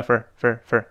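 FOR reduced to a short, quick "fer"; weak form of for. Shown as a demonstration. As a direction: say FOR short and weak, passing straight over it. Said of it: "读快没的for". (for快读弱读，一带而过)

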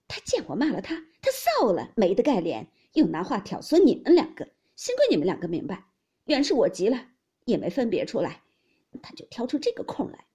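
loud, heated complaint; angry explanation. A narrator's reading. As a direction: still fuming as she explains. Yuanyang still angry.

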